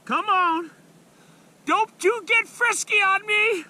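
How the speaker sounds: high, loud coaxing the fish; excited urging. Real, not acted. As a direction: urge the fish in, thrilled. Fighting the fish.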